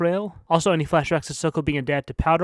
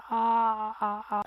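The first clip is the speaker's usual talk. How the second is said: excited squeal; 6 semitones higher, much slower than usual. Real, not acted. Fan gushing over creator noticing.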